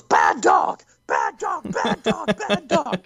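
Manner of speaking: half-laughing imitation of a hysterical scream; mock hysterical screaming. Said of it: "Starts screaming hysterically".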